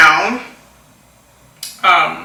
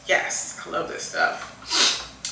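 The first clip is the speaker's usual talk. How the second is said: soft, slower half-whisper to herself; hushed aside; 10 dB quieter, slower than usual. Real, not acted. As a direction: murmur it as a private aside over the makeup. Aside while applying makeup.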